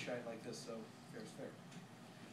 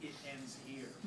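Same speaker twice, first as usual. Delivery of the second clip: softer, offhand imitation; mocking his catchphrase; 6 dB quieter, slower than usual. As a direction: toss off his catchphrase with a shrug. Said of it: "He was always saying".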